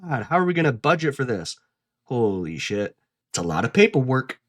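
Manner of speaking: fast, fretting mock thoughts; mock Myers. Myers fretting over the budget, fast. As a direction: rattle it off like a stressed budgeter. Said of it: "is what Myers is thinking".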